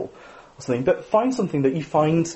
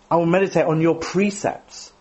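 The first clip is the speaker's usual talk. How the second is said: "meditate" stressed, falling end; 3 semitones higher than usual. Shown as a demonstration. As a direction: lean on "meditate". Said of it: "emphasize a different word".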